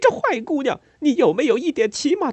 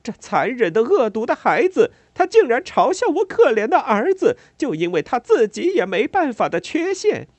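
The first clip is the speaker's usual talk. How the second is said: high, loud, pained rage pouring out; anguished furious tirade; 12 semitones higher, 9 dB louder than usual. A narrator's reading. Mother raging at the neighbour over her son. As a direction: let the pain and anger flood out. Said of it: "仿佛一股痛苦、愤怒、挣扎的洪流".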